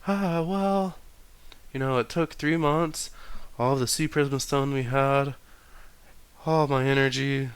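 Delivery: June's voice. Acted. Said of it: "she says".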